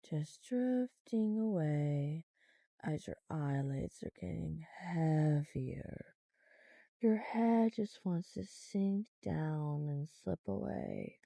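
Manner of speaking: slow hypnotist voice; hypnotic voice. Shown as a demonstration. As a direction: guide them down gently. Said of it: "when I change my voice again".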